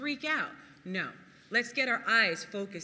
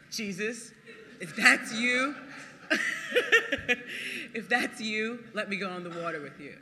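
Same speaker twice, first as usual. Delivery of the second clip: eager plea; 4 dB louder than usual. Retold or imitated. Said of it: "Peter calling to Jesus".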